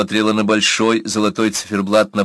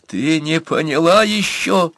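high, slow, almost sobbing plea; nearly breaking into sobs; a touch of tearful pleading; 8 semitones higher, slower than usual. A narrator's reading. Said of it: "почти зарыдал Бурса".

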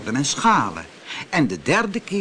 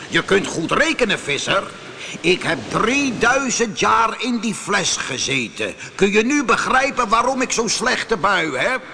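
raised, ill-tempered genie voice; roaring genie; 7 semitones higher than usual. Acted. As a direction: rail at the fisherman about the long captivity. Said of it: "brulde de geest". (brullende, slechtgehumeurde geest)

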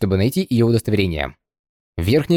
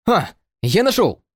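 pleased exclamation; 6 semitones higher, slower than usual. A narrator's reading. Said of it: "обрадовался Хан Сяо".

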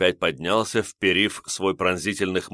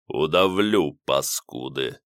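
sinister threat; 4 semitones lower, slower than usual. Acted. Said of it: "зловеще пообещал Ливер".

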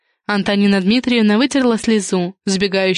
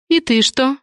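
whispery, higher-pitched question; hushed; 5 semitones higher than usual. A narrator's reading. Friend prods the manager to go on, hushed. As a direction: ask it in a half-whisper.

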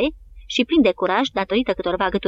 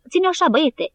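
much higher encouraging call; soldier's shout; 8 semitones higher than usual. A narrator's reading. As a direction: cheer the piper on over the noise. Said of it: "îi strigă un soldat". (strigăt de încurajare)

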